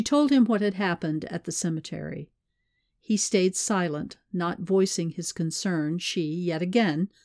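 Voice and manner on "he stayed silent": plain reading voice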